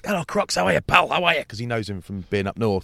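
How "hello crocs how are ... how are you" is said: high, cheery mock greeting; imitating Bentos. Bentos greeting Crocs, hammed up and high. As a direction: play the hearty old pal. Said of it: "I was, you know, Croc".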